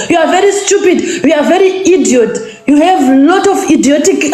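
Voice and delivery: furious scolding shout; angry shout. Real, not acted. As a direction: yell the insults at her. Angry rant at a rival.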